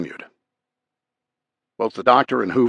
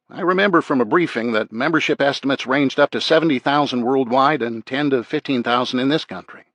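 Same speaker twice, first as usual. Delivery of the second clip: a hint of a sheriff, pitched higher; lightly voiced sheriff; 5 semitones higher than usual. Sheriff briefing an officer on gang numbers, lightly voiced. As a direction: read the sheriff slightly lifted from narration.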